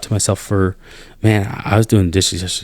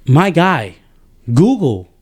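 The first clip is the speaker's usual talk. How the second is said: rising exasperated outburst, pitched up; exasperated disbelief; 5 semitones higher than usual. Real, not acted. To the podcast host about a soldier who won't Google, exasperated disbelief. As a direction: throw up your hands in disbelief.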